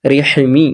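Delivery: "রেহিমি" with a tight mid-throat h; "রেহিমি", h pressed in the throat; slightly squeezed throat. Shown as a demonstration. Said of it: "গলার মাঝখান থেকে একটু চিপে পড়বো".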